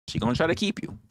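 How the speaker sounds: said high, rising on keep; high take. Acted. A high teasing warning to the wrestler. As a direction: lift it up and stretch keep. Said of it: "repeats line in new voice".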